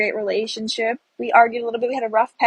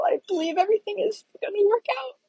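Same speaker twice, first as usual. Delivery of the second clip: whispered hope; 8 semitones higher, 5 dB quieter, faster than usual. Real, not acted. Tearful whisper at end.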